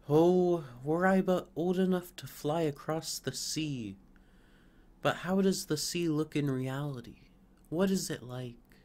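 a longing sapling crying out; eager young fir. Acted. Young fir begging the stork to describe the sea.

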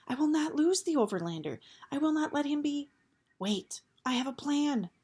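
fierce resolve. Acted. Eris resolving aloud.

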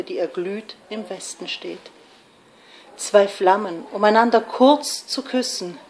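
measured romantic verse, softening at line ends; gentle poetry recitation. Acted. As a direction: recite a tender lyric, phrase by phrase. Recites a Becquer poem.

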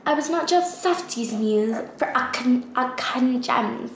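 fumbled quote in a put-on British accent. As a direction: stumble through an imitated line, sounding accidentally British. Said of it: "Why am I saying it in a British accent?".

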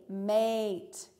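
"mate" with a clear long A. Shown as a demonstration. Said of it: "You hear the long A".

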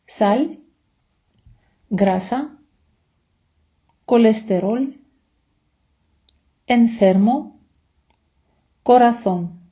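Spanish words read one by one, with pauses between; slow model words. Shown as a demonstration. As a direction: model each word slowly for repeating. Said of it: "я повільно, ви за мною".

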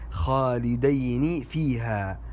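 "خالدين" slowly as khalidayni; slow "خالدين" with ay, ending ni; dual form. Shown as a demonstration. Teacher gives the dual, "خالدين" slowly as khalidayni. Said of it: "بالمثنى".

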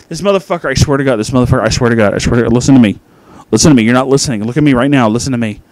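loud, emphatic, stumbling over repeats; urgent insistence. Acted. Reviewer pleading with listeners to believe the fedora detail, loudly insistent. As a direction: demand their attention at full voice.

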